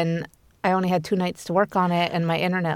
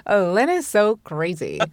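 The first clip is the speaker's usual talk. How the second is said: deadpan. Retold or imitated. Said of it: "Like, not even laughing".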